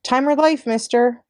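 put-on paper boy's eager high call, slow and drawn; eager shouting. A narrator's reading. Mario eagerly calls to morning commuters, hawking papers. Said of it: "especially eager in his shouts of".

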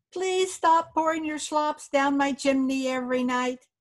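a hint of a tiny fairy man; little voice. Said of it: "said the little fairy".

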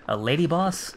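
laughing, high and incredulous; half-laugh of disbelief at the boss; incredulous question. Real, not acted.

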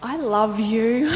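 slow, laughing, dreamy; loopy from the drugs, giggling it out; giggly drugged I love you. Retold or imitated. To husband, drugged and blissful, a laughing slow coo. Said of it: "I'm like".

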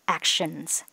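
"Actions" ending in a clear z sound; ending sound demo. Shown as a demonstration. Teacher models the final z in "Actions". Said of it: "chúng ta sẽ đọc là Z".

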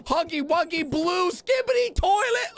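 slow, high hyped-up shout; hype shout. Real, not acted. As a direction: yell the title like a hype intro. Hyped video intro call-out.

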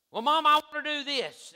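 put-on high, loud kid pestering mom; pleading child. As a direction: voice a child begging mother for permission. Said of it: "Did your mama know that?".

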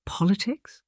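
high, questioning rise; flicker of interest. A narrator's reading. Older sister hears politics mentioned by governess, intrigued. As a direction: echo the word as a question, pitch climbing with interest. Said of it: "a flicker of interest crossing her face".

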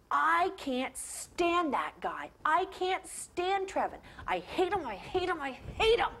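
put-on stamp it out like an upset boy; angry kid. Gordy fumes about Trevin in the back room, kid anger. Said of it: "he was so angry".

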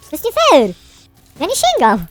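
put-on high, loud childish whine; mock tantrum over the game; whiny kid voice. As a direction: complain like a sulky child. Whining at unfair game moment.

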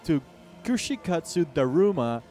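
high, loud clickbait YouTuber voice; hyped YouTuber. Pretend. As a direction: sell it like a clickbait intro. Mock clickbait YouTuber intro.

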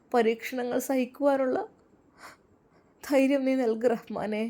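understated sobbing plea; mildly acted, halting lament; tearful prayer. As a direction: beseech God with a touch of tears. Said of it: "അവൾ വിതുമ്പിക്കൊണ്ട് കരഞ്ഞു".

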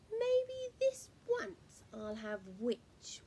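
hushed, menacing dragon whisper; sinister whispered threat. Acted. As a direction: dragon savouring his meal, hushed. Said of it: "and said".

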